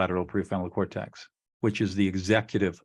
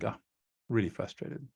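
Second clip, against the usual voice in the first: conversational; 7 dB quieter than usual. Shown as a demonstration. Listener trying the label a second time, soft and conversational. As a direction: say it softly, as casual conversation. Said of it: "do it conversationally with just one emotion".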